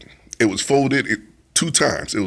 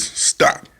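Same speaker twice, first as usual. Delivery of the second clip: whispered stop; whispered command. Retold or imitated. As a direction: breathe the word, firm. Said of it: "the voice says".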